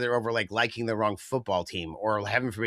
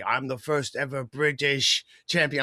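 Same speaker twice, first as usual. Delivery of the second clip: mock champion proclamation; 3 semitones higher than usual. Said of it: "raise the title and say".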